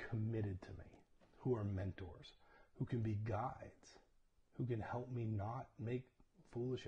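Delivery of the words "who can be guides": whisper. Real, not acted. Sermon aside dropped to whisper.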